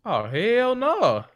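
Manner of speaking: high, drawn-out "oh, hell no"; shocked disbelief. Real, not acted. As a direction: stretch it out in outrage. Reacting to the torn card.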